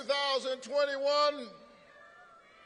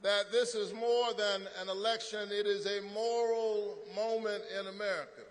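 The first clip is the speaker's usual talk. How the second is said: pastor voice; 3 semitones lower, 5 dB quieter than usual. Real, not acted. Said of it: "hear the pastor tonight".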